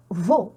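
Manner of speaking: veau ending in a single "o"; EAU pronounced O. Shown as a demonstration. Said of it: "mais on prononce O". (veau, « eau » prononcé « o »)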